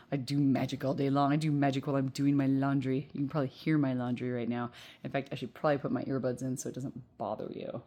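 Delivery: talking with gum in mouth; chewing gum. Real, not acted. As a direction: speak around a piece of gum. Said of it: "I still had gum in my mouth".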